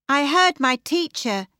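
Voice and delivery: put-on high girl's voice recalling a lesson; young Tilly speaking. Tilly remembers her geography teacher, high girlish voice. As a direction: pitch it up as a schoolgirl. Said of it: "Tilly said".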